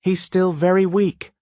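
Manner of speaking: high, breaking voice; voice cracking. Acted. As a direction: plead with a cracking voice. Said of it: "her voice cracking".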